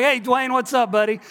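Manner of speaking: high, loud friendly hail; calling back. Retold or imitated. Pastor hailing his neighbor across the street, calling back. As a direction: re-enact a greeting called across a street.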